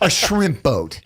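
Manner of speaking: laughing through the words shrimp boat; laughing repeat. Real, not acted. Repeating shrimp boat to the host, laughing. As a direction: say it again, cracking up.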